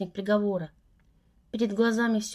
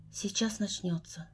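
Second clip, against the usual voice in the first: resigned dread; 8 dB quieter, slower than usual. A narrator's reading. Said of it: "вздохнула я обречённо".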